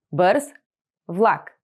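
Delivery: two words with a pause between. Shown as a demonstration. Teacher splitting the phrase for learners. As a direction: say each word on its own. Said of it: "split into words for repeating".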